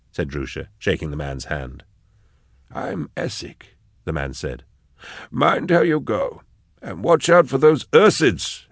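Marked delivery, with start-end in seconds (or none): 2.7-3.8 whispered stranger. Acted. Stranger introduces himself. 5.3-8.7 put-on higher, slow, rustic old man; a friendly local warning a traveller, drawn out; slow, high old woodsman, kindly; old stranger's warning.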